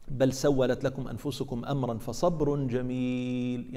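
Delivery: the verse said slowly and measured; slow recitation. Acted. (تلاوة بطيئة متأنية)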